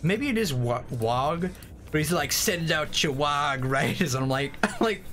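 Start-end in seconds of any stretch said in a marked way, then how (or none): 2.3-4.1 put-on Boston accent. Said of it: "Like he's from fucking Boston?".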